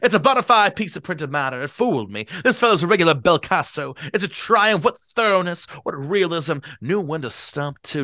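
put-on booming eager drunk; owl-eyed drunk. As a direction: show off the books to the guests. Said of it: "give Gatsby a bad voice".

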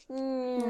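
explosion noises. Retold or imitated. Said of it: "like explosion noises".

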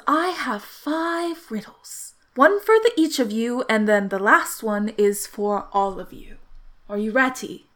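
measured, theatrical host posing a challenge; scheming riddle-master. Acted. Game master voices Phineas.

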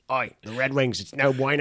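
lightly hammed-up Australian accent; playful, rough Australian accent; mock Perth accent. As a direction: try a broad Australian twang. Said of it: "It's from Perth".

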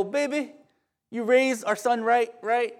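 butter up your wife, playfully acted; lightly imitated husband's praise; sweet-talking husband. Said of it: "that's how I talk to my wife".

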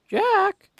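put-on high, creaking old woman voice; creaky old woman. A narrator's reading. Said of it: "her voice creaking like the porch boards".

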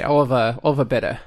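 put-on a slip into a vague Irish-Australian English accent; accidental Irish accent. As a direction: order a bitter at the pub, drifting into a half-Irish, half-Australian accent. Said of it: "weirdly Irish".

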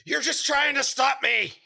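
breathless from laughing, high and strained; after laughing hard. Acted. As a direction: gasp it out, still winded from laughter. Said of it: "still catching his breath from laughing so hard".

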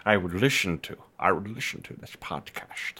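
soft, low mock lisp on "listen". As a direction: tease with a quiet lisped "listen". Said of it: "you had a little lisp there".

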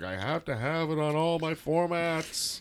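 high-pitched mock tantrum; drama queen fit. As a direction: imitate a whiny drama-queen outburst, voice pushed up. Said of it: "I threw a drama queen fit".

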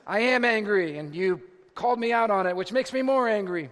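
mock indignant, forceful retort; angry inner outburst. Husband inwardly snaps back at his wife, in mock anger. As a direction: let the inner irritation burst out, hammed up. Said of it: "on the inside".

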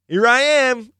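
high, emphatic announcement; lightly acted big reveal; revealing himself. Jesus reveals himself to the healed man, emphatic. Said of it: "And Jesus goes".

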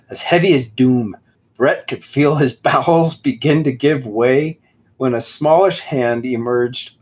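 slows down to savor the overwrought prose; mock dramatic reading. Shown as a demonstration. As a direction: read it like doom is coming. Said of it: "This is how he writes".

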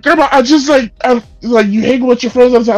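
imitating flustered self. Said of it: "And like".

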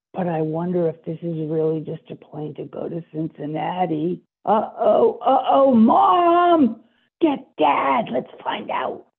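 put-on scared child.

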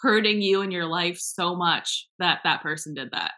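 sarcastic "so sorry" with punchy emphasis; mock apology. Podcaster mocking people hurt by one little mistake, sarcastic apology. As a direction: lay on the fake sympathy.

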